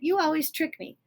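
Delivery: high, complaining giant voice; a hurt giant protesting; whiny giant. Acted. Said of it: "said the Giant".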